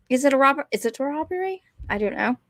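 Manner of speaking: badly faked English accent; half-hearted mock English accent. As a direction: attempt an English accent, not very well. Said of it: "that was a really bad English accent".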